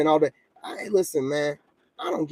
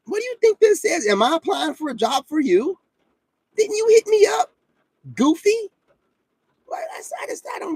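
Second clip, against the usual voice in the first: exasperated outburst. Real, not acted. Exasperated rant at the woman.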